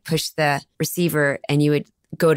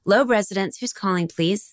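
professional phone manner; 3 semitones higher than usual. Acted. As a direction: answer as if really professional, a touch put on. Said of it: "if you were really professional".

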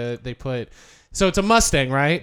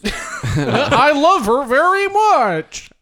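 manatee voice; 5 semitones higher, much slower than usual. Pretend. Manatee voice continued.

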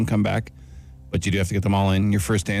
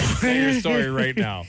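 high, slow, hammed-up demand; mock stern demand; 11 semitones higher, slower than usual. Playful demand for apology.

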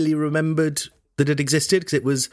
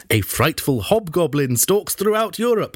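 dramatic reading. Shown as a demonstration. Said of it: "which I prefer".

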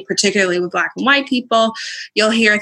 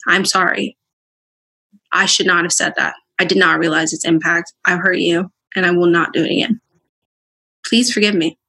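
sincere apology; 3 semitones lower than usual. Shown as a demonstration. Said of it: "First, take accountability".

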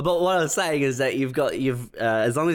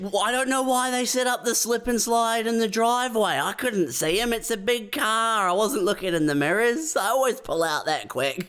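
mock defensive Wolf; 8 semitones higher than usual. Playing Wolf defending himself.

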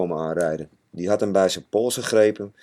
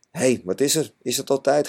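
yawning; 5 semitones higher than usual. Acted. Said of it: "geeuwde hij".

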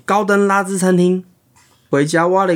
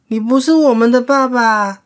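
兔子宝宝; 8 semitones higher than usual. Acted. 兔子宝宝反驳.

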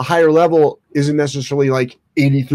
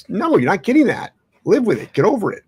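firm parent; 6 semitones higher than usual. Retold or imitated. Voicing firm parent refusal.

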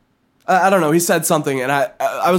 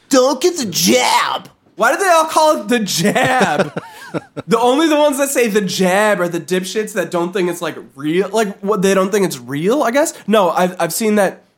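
mock anti-vaxxer; 2 semitones higher than usual. Mocking anti-vaxxer rant.

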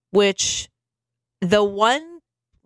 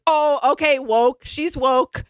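mock Howie Mandel; 4 semitones higher than usual. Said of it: "And Howie goes".

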